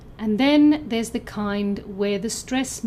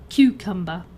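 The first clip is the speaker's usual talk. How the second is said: loud first syllable on "cucumber"; first-syllable stress; 2 semitones lower, 5 dB louder than usual. Shown as a demonstration. Teacher compares it with definite, first-syllable stress on "cucumber". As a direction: punch the start of "cucumber". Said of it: "stress is on the first syllable".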